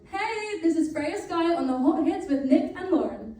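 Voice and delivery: bright upbeat radio tag read; radio station ident. Shown as a demonstration. Singer recording a radio shout-out, upbeat ident read. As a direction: sell the station ID like a jingle. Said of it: "Do you mind saying".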